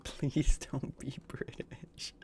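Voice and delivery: whispered through laughter, slow; laughing whisper begging a friend to drop the British act. Real, not acted.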